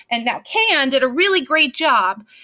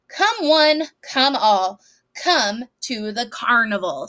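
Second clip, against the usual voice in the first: lightly voiced carnival crier, drawn out; a hint of a barker announcing the show; carnival sign announcer; slower than usual. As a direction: read it out like a mild "come one, come all" call.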